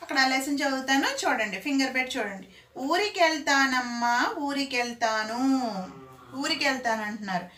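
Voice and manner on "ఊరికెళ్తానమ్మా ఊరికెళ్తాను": put-on slow children's rhyme recitation; teacher reciting a little girl's rhyme; singsong rhyme. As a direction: chant it slowly, stretching the vowels. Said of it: "ఒక పాప పాడుంది".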